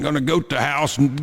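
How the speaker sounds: mock southern accent. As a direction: tease Southern CB truckers with a put-on Southern accent. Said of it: "they all had a southern accent".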